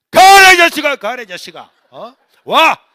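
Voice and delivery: furious high bellow; explosive yelling, driving him away; scolding mother. Retold or imitated. Mother throwing son out of the house, furious scolding. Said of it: "야단치니까".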